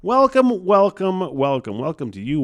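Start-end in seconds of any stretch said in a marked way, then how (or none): 0.0-0.7 high mock welcome. Repeated welcomes, sing-song opener. 0.7-1.3 hammed-up welcome. Comic show opening greeting.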